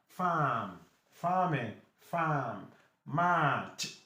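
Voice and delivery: "Farm", "March" with a held "ah", no R; long A. Shown as a demonstration. Teacher contrasts the vowel sounds, drawn-out "Farm". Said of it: "this one is A longer".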